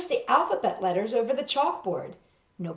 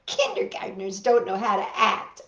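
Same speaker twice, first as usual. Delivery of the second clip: laughing. Acted. Laughing at little kids.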